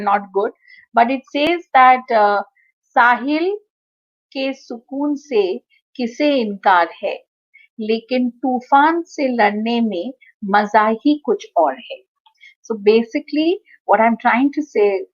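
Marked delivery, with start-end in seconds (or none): 3.0-12.0 lightly imitated shayari recital, paused between phrases; shayari like Nishikant. Lecturer attempting Hindi shayari for her students, lightly poetic recital. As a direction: recite the couplet with measured pauses, dropping at the close. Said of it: "try to say it like that".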